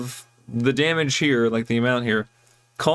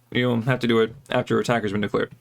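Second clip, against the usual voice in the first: talking round a seed in the mouth; words around something in the mouth; mouth full; 2 semitones lower, faster than usual. Real, not acted. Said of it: "I have, like, a seed in my mouth".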